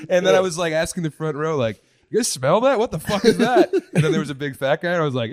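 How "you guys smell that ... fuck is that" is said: high, mock-outraged questioning; put-on innocent indignation, pitched way up; feigned disgust. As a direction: act shocked to deflect the blame. Feigning innocence to the front row.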